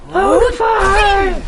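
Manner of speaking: big, slow, drawn-out shout; booming shout. Acted. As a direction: bellow the dragon's name. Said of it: "I got a hell of a shout".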